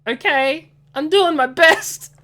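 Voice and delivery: high, loud protest through laughter; laughing, insisting he's trying; laughing defensively. Real, not acted. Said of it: "it's hard to do an accent".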